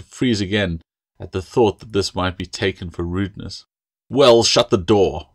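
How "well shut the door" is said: slow, curt snapped order; snapping. Acted. Master to the dawdling girl, slow curt snap. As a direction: snap it at her like a command. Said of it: "Master Collins snapped".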